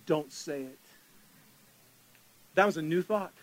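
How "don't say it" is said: soft inner warning. Retold or imitated. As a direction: hush it like a voice in your head. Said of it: "right on the heels of that came".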